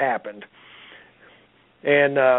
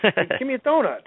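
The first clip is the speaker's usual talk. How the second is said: higher, insistent demand; impatient demand; 6 semitones higher, faster than usual. Retold or imitated. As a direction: push harder, getting annoyed. Wife demanding donut again, escalating.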